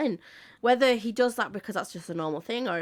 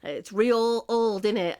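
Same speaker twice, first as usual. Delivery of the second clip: put-on Cockney accent; 3 semitones higher, 4 dB louder, slower than usual. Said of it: "a right common Cockney accent going".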